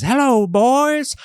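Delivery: high, slow, triumphant movie line; Randy Quaid impression. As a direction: shout it like the hero's last stand. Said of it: "and he says".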